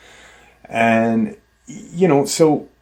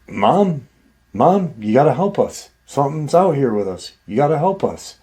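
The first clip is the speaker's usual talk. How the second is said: higher-pitched imitation of a boy begging for help; replica of son's plea; 4 semitones higher than usual. Voice in the woods copies son's cry to mom, mock pleading. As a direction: repeat an urgent cry, lightly acted. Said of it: "exact, like, tone replica".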